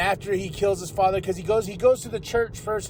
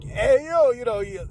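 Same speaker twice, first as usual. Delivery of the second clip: raised-pitch imitation of a menacing tough guy; higher-pitched, pushy retold threat; Stallone; 4 semitones higher than usual. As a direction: act out a mob boss's threat. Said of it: "I mean, it was scary".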